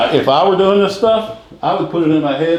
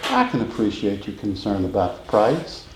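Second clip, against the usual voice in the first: soft and easy; 7 semitones lower, 7 dB quieter than usual. Shown as a demonstration. Salesman calmly cushioning a client's price concern, soft and easy. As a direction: lower and softer, nice and gentle. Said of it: "was that soft and easy and nice".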